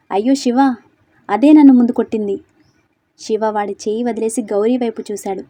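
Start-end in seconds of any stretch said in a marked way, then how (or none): 0.1-2.4 whining complaint. Acted. Thug whines to Siva.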